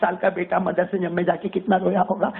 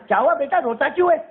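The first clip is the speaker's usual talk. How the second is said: put-on high, gentle coaxing voice of the old teacher; maulana comforting; 8 semitones higher, 3 dB louder, faster than usual. Teacher gently asks the weeping pupil why he cries.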